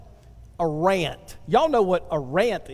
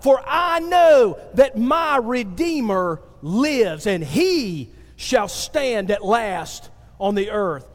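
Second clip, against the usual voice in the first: slow, emphatic preacher's declamation; impassioned scripture reading; slower than usual. Acted. Preacher reads Job's rant to the congregation, slow and impassioned. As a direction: declare each phrase with drawn-out weight.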